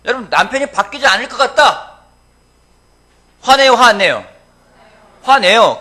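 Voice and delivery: loud, high, driving sermon voice; preaching at full force. Acted. Pastor pressing the congregation about anger, preaching at full force. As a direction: hammer each question at the pews.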